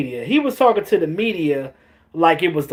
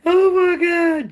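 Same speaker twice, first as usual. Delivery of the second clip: laughing disbelief; 12 semitones higher, slower than usual. Real, not acted. Cracking up at the quote.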